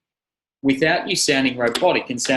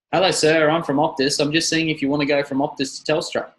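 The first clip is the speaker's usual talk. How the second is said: telemarketer voice; 2 semitones higher than usual. Retold or imitated. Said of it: "Look at your telemarketers".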